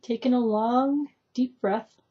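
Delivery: gentle narration with long pauses between phrases; guided meditation. Shown as a demonstration. Teacher walking a listener through a forest, guided meditation voice. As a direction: lead them unhurriedly through the imagery, letting each phrase settle. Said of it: "a short example of how this tends to work".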